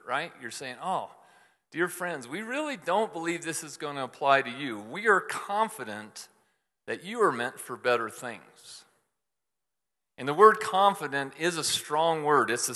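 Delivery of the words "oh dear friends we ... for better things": a reader taking comfort from the letter, softened; reassured reading. Retold or imitated. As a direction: read it as gentle reassurance. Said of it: "you would be reassured".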